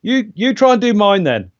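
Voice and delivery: lightly imitated Scouse; a partial attempt at Scouse; co-host's Scouse accent. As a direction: mimic your friend's Scouse accent. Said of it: "that's pretty accurate".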